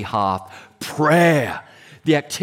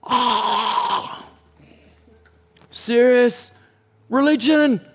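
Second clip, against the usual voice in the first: God's voice; 10 semitones higher, much slower than usual. Retold or imitated. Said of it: "And God's going".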